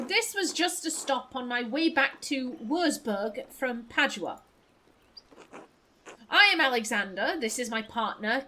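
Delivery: lightly played posh traveler. Musician introducing his partner to a townswoman, lightly posh. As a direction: introduce yourself in a mild posh accent. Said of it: "I'll give you posh voice".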